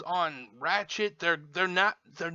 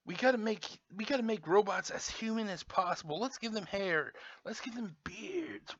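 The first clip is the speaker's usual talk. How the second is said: higher, softer sarcastic imitation; lightly put-on higher voice, mocking; mocking designers; 4 semitones higher, 6 dB quieter than usual. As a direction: pitch the silly idea in mock earnest. Mimics toy designers' reasoning.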